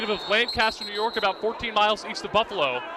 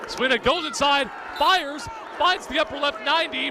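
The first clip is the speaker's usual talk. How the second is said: excited call; 5 semitones higher than usual. Real, not acted. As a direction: build the call up as he fires. Goal-scoring chance, play-by-play call.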